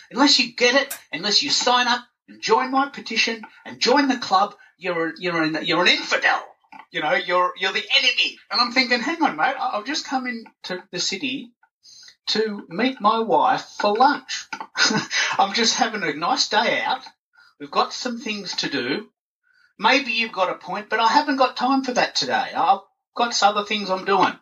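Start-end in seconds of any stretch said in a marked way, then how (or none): 0.1-8.4 high, preachy street rant; mock soapbox ranter. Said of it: "the way he presented it was". 9.0-24.3 high, put-upon reply; mock exasperated. His own annoyed inner reply.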